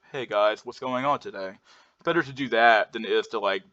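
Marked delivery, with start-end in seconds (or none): 0.1-1.5 mildly monotonous greeting, little inflection. Shown as a demonstration. Teacher showing listeners a neutral way to greet people, mildly monotonous. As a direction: keep the greeting fairly even, without upward inflection. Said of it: "monotonous and talk like".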